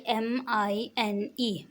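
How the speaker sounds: letters spelled out very slowly. Shown as a demonstration. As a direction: dictate each letter slowly to learners. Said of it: "तो spelling क्या होती है इसकी". (धीरे-धीरे spelling बोलें)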